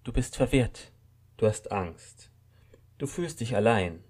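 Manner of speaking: calm, understanding. A narrator's reading. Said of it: "Mit ruhiger, verständnisvoller Stimme".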